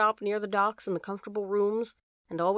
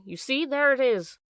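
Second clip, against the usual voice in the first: excited, a bit higher and louder, breathless; breathing quickly; 4 semitones higher, 4 dB louder than usual. A narrator's reading. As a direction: pant it out as he shows the tattoo. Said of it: "breathing quickly".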